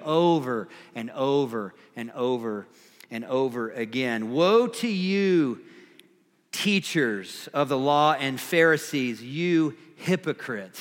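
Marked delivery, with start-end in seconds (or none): 4.3-10.8 serious, direct. Retold or imitated. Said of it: "His tone is serious, direct".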